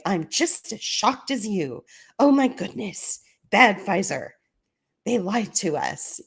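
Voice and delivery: lightly hammed-up dismay, peaking on the exclamation; mock shock. Government turns around to answer the lawyers, in mock shock.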